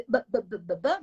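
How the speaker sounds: teasing repeated syllables; mocking stutter imitation. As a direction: mimic a stammer to make fun. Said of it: "il se moque".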